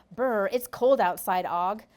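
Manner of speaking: slow, loud shivering from the cold; shivering brr. Acted. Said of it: "rubbing her arms as she speaks".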